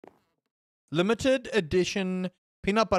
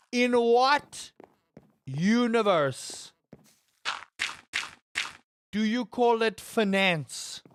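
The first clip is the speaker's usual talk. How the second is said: incredulous; 2 semitones higher, slower than usual. Real, not acted. Mock outrage, repeats question slowly.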